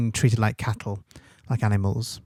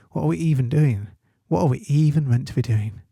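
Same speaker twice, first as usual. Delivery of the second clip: raised pitch, mock confused pupil; mimicking year sevens; 3 semitones higher than usual. Teacher mimicking her confused year sevens, mock bewildered. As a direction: take off a baffled year seven, slightly higher. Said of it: "It's like my year sevens".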